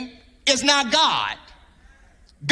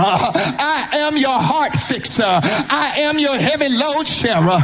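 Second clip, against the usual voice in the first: whooping preacher close. Real, not acted. Preacher whooping the I am list to the church. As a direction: build it in a sung preaching chant.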